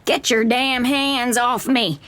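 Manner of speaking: slow, pained cry, pitched high. Acted. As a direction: drag it out, fighting the pain. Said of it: "she cries".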